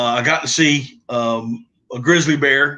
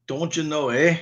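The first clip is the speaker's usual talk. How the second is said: softer, teasing "Don't you know, eh?" in a put-on northern accent; mock Canadian accent; 2 semitones higher, 5 dB quieter than usual. Ribbing his northern friend, mock Canadian accent. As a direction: toss in a jokey Canadian "eh". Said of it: "That's Canadian".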